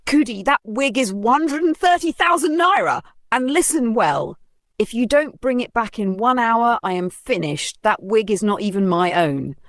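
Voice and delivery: frantic about the borrowed wig; shrill-pitched panic, warning her friend; panicked alarm. Acted.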